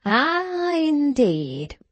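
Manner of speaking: long, high, swooping "Ah"; drawn-out sugary musing; sweetly bland. A narrator's reading. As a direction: coo it slowly like a benevolent old man. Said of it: "said the patriarch sweetly".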